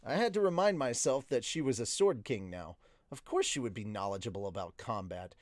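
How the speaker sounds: measured audiobook-style narration; story narration. A narrator's reading. Streamer reading a novel to viewers, story narration. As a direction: read the story aloud in the narrator's voice.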